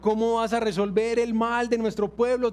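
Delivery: high, loud incredulous protest; a prophet arguing with God in disbelief; Habakkuk's objection. Retold or imitated. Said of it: "empiezan las objeciones de Habacuc".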